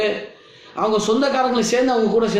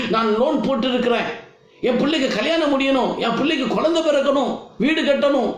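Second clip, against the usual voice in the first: mock pleading prayer, higher-pitched singsong list; imitated tearful begging; 4 semitones higher than usual. Imitating churchgoers praying for loans and weddings, mock tearful begging. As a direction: rattle off wants like a whining petitioner. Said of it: "ஒரே அழுக".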